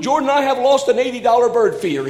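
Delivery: high, loud, hammed-up wail with a laugh; father crying to his son over a lost bird feeder, mock anguish; mock despairing cry. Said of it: "I said".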